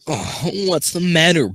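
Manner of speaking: a hammed-up seductive purr. Shown as a demonstration. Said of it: "I don't know how to do a seductive voice".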